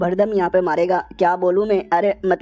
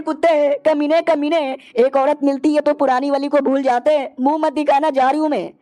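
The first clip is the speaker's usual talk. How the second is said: tearful rant; 4 semitones higher than usual. Acted. Witch runs off crying at all men, tearful rant. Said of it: "रोते रोते भाग जाती है".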